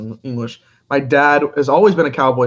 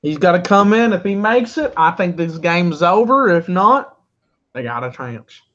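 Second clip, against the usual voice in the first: fake Texas accent; 2 semitones higher than usual. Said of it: "put on a fake, uh, Texas accent".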